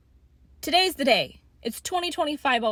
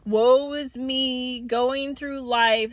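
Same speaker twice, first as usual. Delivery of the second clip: mocking whiny; much slower than usual. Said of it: "and they're just".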